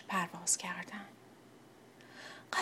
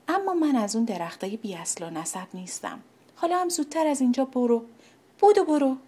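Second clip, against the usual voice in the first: proud and haughty; 2 semitones higher than usual. Acted. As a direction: look down your nose, then chase it off. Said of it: "با غرور". (مغرور و از بالا، آخرش با داد)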